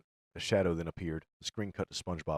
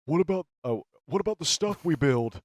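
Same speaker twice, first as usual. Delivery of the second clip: panicked shout; 7 semitones higher, 7 dB louder than usual. Acted. Patrick panics.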